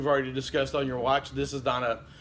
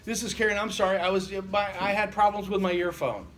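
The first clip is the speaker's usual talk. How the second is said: lightly imitated perky woman, pitched higher; perky female robocall voice; 5 semitones higher than usual. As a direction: mimic a chirpy recorded caller, a bit higher. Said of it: "this perky female voice that goes".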